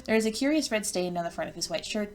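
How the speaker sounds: measured game narration read aloud; story narration. A narrator's reading. Narrator introduces the troll approaching Lanera, measured storytelling. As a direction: read it out as a storyteller describing a scene.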